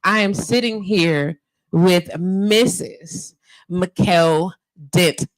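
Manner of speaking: ordinary talk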